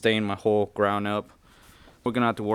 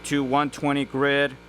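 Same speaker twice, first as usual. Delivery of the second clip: raised, higher voice over compressor noise; shouting over machinery; 4 semitones higher than usual. Real, not acted. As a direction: push the voice up over the running machine. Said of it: "the compressor is running right now".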